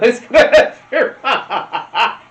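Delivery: high, loud, slow laughing taunt; mock the loser through laughter; mocking gamer taunt. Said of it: "and said".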